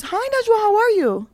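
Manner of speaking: high-pitched imitated hello; lightly acted chirpy hello; mock friendly greeting. Retold greeting at Eid prayer.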